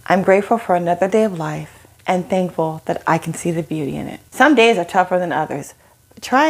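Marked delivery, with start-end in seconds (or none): 0.1-4.2 gentle gratitude. Shown as a demonstration. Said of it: "instead, say".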